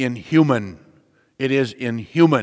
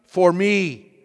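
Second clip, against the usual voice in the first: earnest preaching; 3 semitones higher than usual. Acted. Preacher voicing Jesus to his flock, solemn. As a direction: preach the quote with weight.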